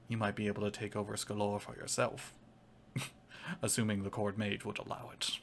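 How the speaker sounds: put-on measured Irish-accented schemer; accidental Irish accent. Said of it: "that's the best Irish accent".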